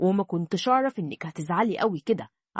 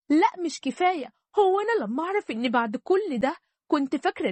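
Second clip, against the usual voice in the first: a touch higher, emphatic daughter demanding the truth; young wife insisting; 5 semitones higher than usual. Acted.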